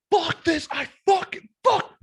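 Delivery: high strained mock yell; a squeaky pretend meltdown; frustrated outburst. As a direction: yelp it out in a high exasperated burst. Frustrated outburst over low numbers.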